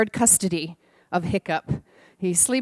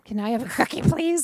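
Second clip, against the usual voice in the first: put-on child asking sweetly; 2 semitones higher than usual. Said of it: "That's how she said it".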